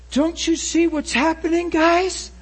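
high, loud, urgent proclaiming; impassioned retold exhortation. Girl urging the people to see God's work, high impassioned cry. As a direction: cry it out to everyone, pitched high. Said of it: "this Spanish girl says".

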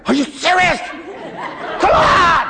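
high, laughing mock exasperation; laughing disbelief. Preacher retelling his reaction to calm Miss Hogan, laughing disbelief. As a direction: throw up your hands, laughing.

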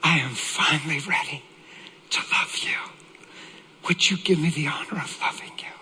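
hushed, heartfelt plea; tender sincerity. Retold or imitated. Husband asking to love his wife, tender. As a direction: let it soften into a near whisper.

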